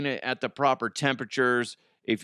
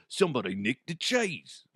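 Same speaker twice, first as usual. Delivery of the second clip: hammed-up Australian accent; mock Australian; 3 dB quieter than usual. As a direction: slip into a comic Australian accent. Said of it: "Now I'm switching into, uh, Australian".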